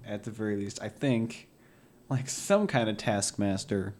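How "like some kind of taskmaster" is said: understated pride in the role; proud. Real, not acted. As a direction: say it quite pleased with yourself. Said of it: "You sound way too proud of that".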